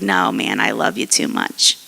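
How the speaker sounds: low, gentle reassurance; lovingly insistent, pitched well down; tender wooing. Retold or imitated. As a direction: woo them back in a low voice. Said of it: "he's wooing him back".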